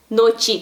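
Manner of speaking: "noche" ending in I, noch-i; wrong noche. Shown as a demonstration. Teacher repeating the wrong noche. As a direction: say "noche" with an I sound at the end. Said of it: "com som de I no lugar do E".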